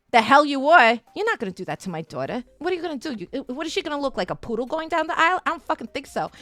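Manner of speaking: quick, mock-combative rant; rapid-fire retold scolding; strong personality, bossy aunt. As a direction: imitate an aunt laying down the law. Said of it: "very strong personalities".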